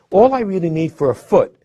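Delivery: ordinary talk, nothing marked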